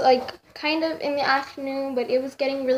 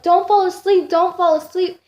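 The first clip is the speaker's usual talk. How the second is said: urgent plea; 5 semitones higher, 5 dB louder than usual. Retold or imitated. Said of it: "they were like".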